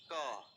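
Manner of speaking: "का" with a plain k and no r; ka sound. Shown as a demonstration. Teacher showing students how some pronounce the letter, plain ka. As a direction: clip it to a bare "का". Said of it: "आप इसे pronounce करते हैं का".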